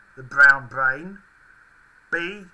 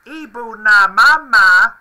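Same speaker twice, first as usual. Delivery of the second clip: high Furby voice; 6 semitones higher, 12 dB louder, slower than usual. Pretend. Reading out made-up Furby phrases.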